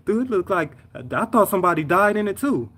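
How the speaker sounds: high, amazed exclamation; retold shock. Coworker who saw the wreck, shocked and high-pitched. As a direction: marvel at how bad it looked.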